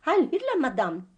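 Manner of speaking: mocking Heil Hitler at the phone; mock German greeting. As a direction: imitate the shouted Nazi salute. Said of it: "sagde det".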